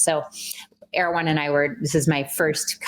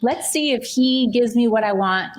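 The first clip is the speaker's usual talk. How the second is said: higher, sly mock plotting; wife plotting to test her husband; mock scheming; 7 semitones higher than usual. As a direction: play your old testing self, sly. Mock scheming self-quote.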